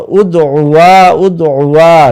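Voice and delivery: উদউয়া stretched slowly, vowels held long; drawn-out drill. Shown as a demonstration. Teacher drilling উদউয়া slowly for Bangla speakers. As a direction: draw out উদউয়া twice, slowly.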